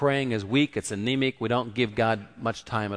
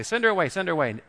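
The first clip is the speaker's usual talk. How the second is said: quick, higher repeated urging; acted nagging from the followers; insistent demand; 6 semitones higher, faster than usual. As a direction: rattle it off, pressing to be rid of her. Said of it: "disciples say".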